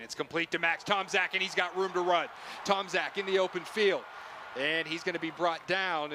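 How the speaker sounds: rising excitement as he breaks free; excited play call. Real, not acted. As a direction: build the call up as the runner gets loose. Big gain called live.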